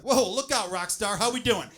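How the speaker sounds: impressed. Acted. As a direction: hype yourself up in pretend amazement. Acting out being impressed with himself.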